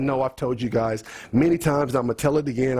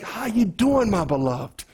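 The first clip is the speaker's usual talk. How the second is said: tender greeting; 5 semitones higher than usual. Acted. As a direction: greet a dearly loved brother. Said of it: "We want to be tender in our language".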